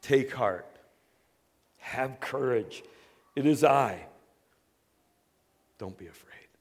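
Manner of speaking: gentle comforting words trailing to a whisper; calm his frightened friends; Jesus reassuring the frightened disciples, gently. Retold or imitated. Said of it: "Jesus spoke to them, saying".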